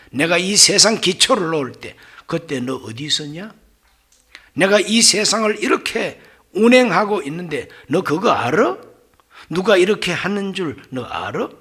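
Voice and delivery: mildly challenging string of questions; acted interrogation. God questions Job about creation, in acted interrogation. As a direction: press each question home. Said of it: "하나님께서 욥에게 계속 질문합니다".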